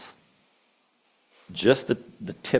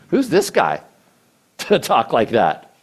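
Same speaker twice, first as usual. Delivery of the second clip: laughing disbelief; 4 dB louder than usual. Real, not acted. Preacher mocking Goliath's boast, laughing. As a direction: scoff with a laugh at the taunt.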